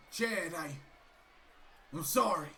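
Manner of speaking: low, soft, sheepish sorry; meek apology. Acted. Otis apologising to his angry partner, low and soft. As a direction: shrink back as you apologise.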